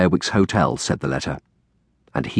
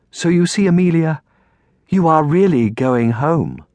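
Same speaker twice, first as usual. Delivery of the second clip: higher, gently coaxing aunt voice; forced cheer; 8 semitones higher than usual. A narrator's reading. Aunt persuades girl she's going home, forced cheer. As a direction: reassure through a forced smile. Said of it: "Aunt Felicia forced a dim smile".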